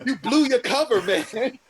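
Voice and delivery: words breaking into laughter; laughing. Real, not acted. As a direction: laugh through the line.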